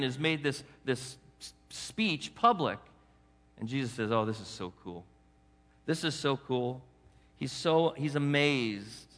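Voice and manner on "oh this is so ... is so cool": hushed amazement. Acted. Jesus voiced, amazed again.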